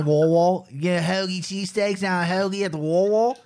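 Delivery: put-on a clumsy, laughing Philly accent about hoagies; hammed-up Philly accent, admittedly terrible; bad Philly accent. Mocking Philly talk for his co-hosts, bad Philly accent. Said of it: "I can't do it anymore. It's terrible".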